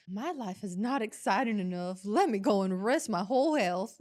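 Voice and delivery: light Southern country twang; country accent. Retold or imitated. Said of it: "why Country came out in it".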